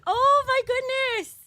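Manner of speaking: high, slow exclamation of disbelief; drawn-out high oh my goodness; amused surprise. Real, not acted. Streamer reacting to a cheeky chat comment, surprised. Reacting to chat's octave joke.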